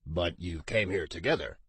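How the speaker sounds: a touch of impatience, kept in check; mild annoyance. A narrator's reading. Sensi pulling information from the girl with mild annoyance. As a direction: press her gently but a little irritated. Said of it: "his voice betraying annoyance".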